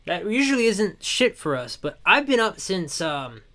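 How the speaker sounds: tired, hoarse and worn out; a voice that's nearly gone. Real, not acted. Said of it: "My voice is kinda gone".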